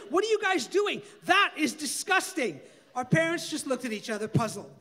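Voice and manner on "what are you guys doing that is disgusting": high, loud disgusted outcry; screaming. Acted. Daughter crying out high and loud in disgust at her parents. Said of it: "she screamed".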